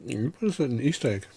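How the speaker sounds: talking while chewing; words round a bite of chocolate; mouth full. Real, not acted. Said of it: "What are you eating there".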